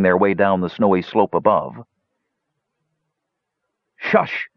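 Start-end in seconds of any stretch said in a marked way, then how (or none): 4.0-4.5 sharp whispered hush; harsh whisper. A narrator's reading. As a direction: hiss it to silence the giggling troops. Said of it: "in a harsh whisper".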